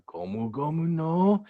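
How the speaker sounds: playful anime attack shout; attack call. Acted. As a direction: wind up the attack name, rising to the end. Calls out attack in character.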